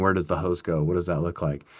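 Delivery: mildly scoffing repeat of the question; incredulous mock quote. EMT manager mocking an employee's question, mildly scoffing. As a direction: echo it back, a touch scornful. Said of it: "what do you mean".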